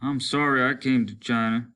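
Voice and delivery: sorry soldier. Acted. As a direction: grumble it to the group. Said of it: "said one of the others".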